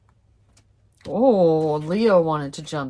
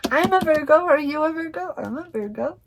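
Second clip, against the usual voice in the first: excited Virgo; 11 semitones higher, 6 dB louder, faster than usual. Real, not acted. Excited about Virgo card.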